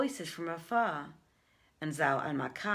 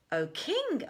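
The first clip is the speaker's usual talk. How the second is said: pleading merchants; 8 semitones higher than usual. Acted. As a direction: beg the king for justice, raised and fast at first. Merchants answer the king.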